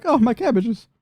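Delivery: high mock wail; hammed-up high dismay; dismayed bystander. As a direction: lament it in a high, comic character voice. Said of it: "he's just like".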